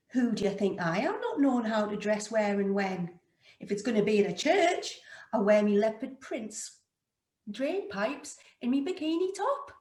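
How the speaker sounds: mildly affronted comeback, rising at the end; indignant retort. Retold or imitated. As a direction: retell it as a put-out answer back. Indignant retort to dress advice.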